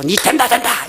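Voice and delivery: quick mock encouragement, lightly voiced; devil's cheering. Preacher mimics the devil promising success, lightly voiced cheer. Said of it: "그 사단의 소리예요".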